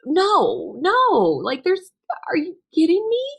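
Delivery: a high, choked cry of disbelief at the news; retold scream of disbelief. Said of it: "like, screamed out".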